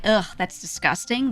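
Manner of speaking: imitating a disgusted English speaker; mildly played revulsion; mock disgust. Shown as a demonstration. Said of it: "it's that English speaker, like".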